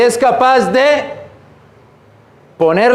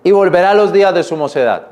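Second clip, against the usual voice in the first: steady reading of the verse; scripture reading. Acted. Preacher reading scripture to his church, measured. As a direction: carry the verse through to its end.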